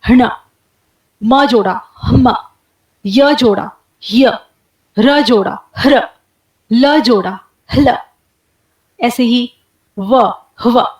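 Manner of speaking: हण हम ह्र ह्ल हव with breath before each consonant; breath first, then the nasal or liquid; aspirated cluster demo. Shown as a demonstration. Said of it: "जैसे अगर ह के बाद न जोड़ा". (उरस्य ध्वनियाँ)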